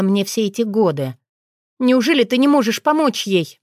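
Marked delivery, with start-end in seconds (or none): 1.8-3.6 higher, louder wail; wailing plea. A narrator's reading. Wife wailing to the dragon for help. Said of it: "взвыла я".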